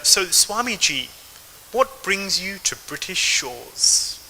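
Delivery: put-on a British journalist asking the visiting swami, in a British accent. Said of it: "so I can do the accent somewhat well".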